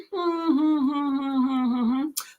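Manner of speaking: thinking hum. Real, not acted. Host deciding on sprints for the viewers, humming to herself. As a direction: hum to fill time while you decide.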